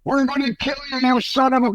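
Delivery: high mock shouted threat; hammed-up distant threat yelled from the road; retold threat. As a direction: yell it like the attackers out in the dark.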